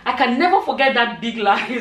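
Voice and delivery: reader reading a funny comment aloud, starting to crack up; real laughter creeping into the end of the line; about to laugh. Real, not acted. Vlogger reading followers a comment about a lie, giggle breaking in. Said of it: "I'm laughing already".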